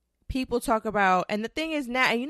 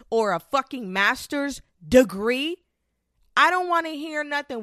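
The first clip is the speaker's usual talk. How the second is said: louder, rising exasperation; exasperated; 6 semitones higher, 6 dB louder than usual. Real, not acted. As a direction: let the frustration spill over. Exasperated rant peak.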